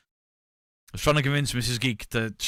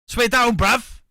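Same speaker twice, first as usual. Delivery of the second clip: higher, louder shouted slang; mock shout; 12 semitones higher, 10 dB louder, slower than usual. Jokey repeat of the slang, shouted. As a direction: yell it like a wound-up lad.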